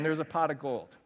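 ordinary delivery

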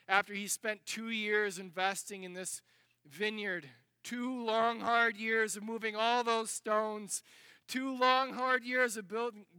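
normal talking voice

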